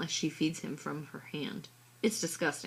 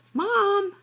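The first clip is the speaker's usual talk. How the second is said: a high, loud wail calling out; 8 dB louder than usual. A narrator's reading. Megan wailing to Mom about her sister, loud high wail. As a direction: wail for Mom like it's unbearable. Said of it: "I wail".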